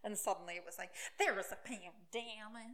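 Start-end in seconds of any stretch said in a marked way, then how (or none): 1.2-2.7 slow, drawn-out mock protest; slow mimicry of a self-righteous excuse. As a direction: stretch each word in mockery. Mocks the pandemic excuse.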